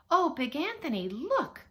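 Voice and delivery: high, loud cry of alarm; startled storybook exclamation. A narrator's reading. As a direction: call out urgently to warn him. Sister alarmed by overflowing pasta.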